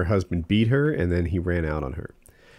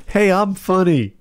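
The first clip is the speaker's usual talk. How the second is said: mock pleading; 10 semitones higher, 6 dB louder, slower than usual. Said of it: "like, convincing me".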